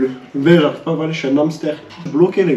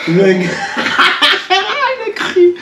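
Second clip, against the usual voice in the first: high, laughing tease; excited teasing; 6 semitones higher, slower than usual. Real, not acted. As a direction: gleefully remind him. Teasing about the forfeit scream.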